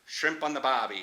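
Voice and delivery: hint of Australian, r dropped in Barbie; lightly imitated Australian accent; Australian accent attempt. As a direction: try the stock Australian phrase. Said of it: "Australian accent".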